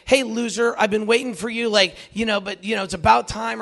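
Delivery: mock taunt. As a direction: tease him like a smug friend.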